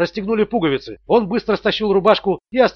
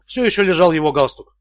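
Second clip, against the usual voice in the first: usual speaking voice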